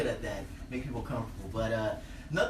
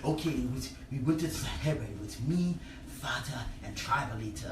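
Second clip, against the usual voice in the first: African storyteller; 4 semitones lower, 4 dB quieter than usual. Retold or imitated. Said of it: "old people World War Two stories".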